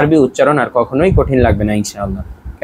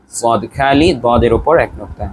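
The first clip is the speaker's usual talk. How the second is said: model recitation; 3 semitones lower than usual. Shown as a demonstration. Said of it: "আবারও বলুন".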